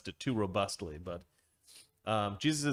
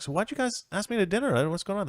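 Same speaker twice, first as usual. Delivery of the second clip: Jeffrey's voice; 8 semitones higher, faster than usual. Acted. Jeffrey voiced in told sketch.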